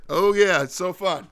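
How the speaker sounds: high, bright mock dancer; mock excited dancer. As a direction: ham up a happy dancer. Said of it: "you're like".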